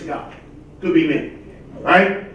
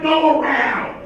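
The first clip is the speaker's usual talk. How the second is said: shouted command; 4 semitones higher, slower than usual. Retold or imitated. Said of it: "I'm like".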